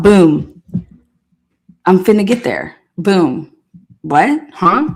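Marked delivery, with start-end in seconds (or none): 0.0-3.5 loud punchy mock of the witness; mocking impression. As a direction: bark out each boom like a cocky witness. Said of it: "he's over here talking about".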